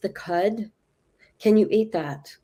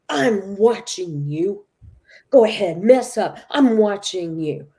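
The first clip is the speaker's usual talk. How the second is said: mock suspicious watcher; 3 dB louder than usual. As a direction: play the wary ex-partner daring him to slip. God voicing her suspicious inner stance.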